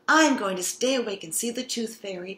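firm. Acted. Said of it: "said to herself firmly".

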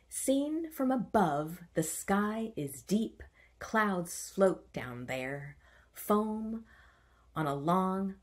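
slow, measured recitation of verse; poem reading. Shown as a demonstration. Poetry teacher reading an example poem to students, slow recitation. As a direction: lay each line down slowly, savoring the meter.

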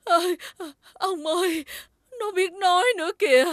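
tearful shock at a talking newborn; startled, near tears. Acted. Mother cries to her husband that the baby talks, tearful.

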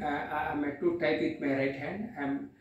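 halting, repeated restarts; stammering. Real, not acted. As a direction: stumble and restart the words. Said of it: "sometimes I'm stammering".

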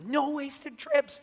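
high, slow, drawn-out "No wasted trips."; imitating a scream in his head at his son; mock inner scream. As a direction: stretch every word of "No wasted trips" like an inner yell. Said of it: "I'm just screaming at him".

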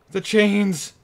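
startled yell of recognition; frightened cry. Real, not acted. Player hears the chains in a horror game, frightened shout.

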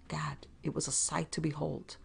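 hushed, awestruck whisper; awed whisper. Acted. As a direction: breathe it in wonder. Awed at a discovery.

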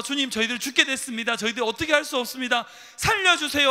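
loud, high cry for rescue; acted panicked begging, rising to a cry; desperate plea. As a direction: build to a shouted, high-pitched plea. Acted disciples begging Jesus for rescue.

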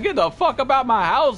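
high-pitched mock-angry order; imitated angry creature. Player speaking for the angry creature chasing them, mock outrage. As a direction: playfully voice an irate homeowner. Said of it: "He's like".

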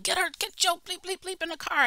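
high, fast mock cussing; cussing mother. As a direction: bark at the child like the angry mother. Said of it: "she was telling".

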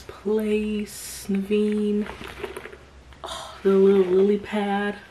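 high, loud gushing; loud, high-pitched thrill; delighted squeal. Real, not acted. Delighted by details on the lining.

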